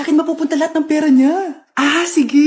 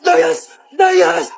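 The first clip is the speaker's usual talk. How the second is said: angry shout; 4 dB louder than usual. Acted. Mother chasing boyfriend out.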